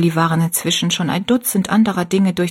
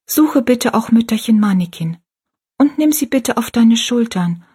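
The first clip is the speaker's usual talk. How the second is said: etwas lauter, kindliches Gebet; leicht erhoben zum Hirten beten; laut gebetet; 4 semitones higher than usual. Acted. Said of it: "sagte laut". (Rosalie betet kniend für die alte Frau, etwas lauter)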